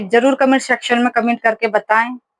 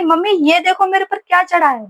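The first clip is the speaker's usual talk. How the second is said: higher, half-acted scared cry for mum; retold panicked yell; 7 semitones higher than usual. A schoolgirl shouts to mum about the chameleon, mock panic. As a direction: mimic a frightened girl calling mum. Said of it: "जोर जोर से चिल्ला रही हूँ".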